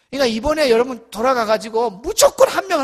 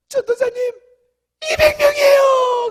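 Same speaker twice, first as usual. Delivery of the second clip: joyful announcement; 14 semitones higher, 8 dB louder than usual. Retold or imitated. Student president announcing two hundred to the pastor, high joyful shout. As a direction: shout 전도사님, 이백 명이에요 in high triumph.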